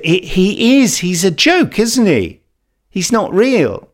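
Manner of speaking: put-on eager young son. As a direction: chirp it like a kid who's sure.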